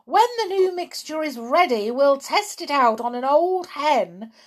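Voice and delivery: high, loud, gleeful planning; too excited to listen. A narrator's reading. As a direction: race on, building to a triumphant cry. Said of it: "was too excited to listen to anyone".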